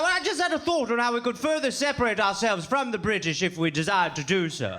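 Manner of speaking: lightly put-on British old boy; a hint of stuffy colonial Brit; old dusty gentleman. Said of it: "two old dusty white dudes".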